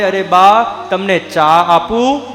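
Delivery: sweet show-off daughter-in-law. Retold or imitated. Daughter-in-law sweetly calls grandma in front of guests, mock-sweet. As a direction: put on fake sweetness for the guests. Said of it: "ઘરેથી વહુ બૂમ પાડે".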